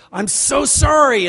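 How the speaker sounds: loud, high, drawn-out apology; effusive apology. Acted. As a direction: overdo an anguished apology, slow and loud. Acted upset apology on a phone call.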